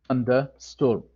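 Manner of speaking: "Thunder" punched, "storm" trailing down; "Thunder storm" with weight on "Thunder"; stress on thunder. Shown as a demonstration. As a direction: lean on "Thunder", let "storm" fall away.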